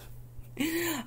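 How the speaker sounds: high, quiet laugh. Real, not acted. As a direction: let a soft high laugh slip out. Laughing at own bit.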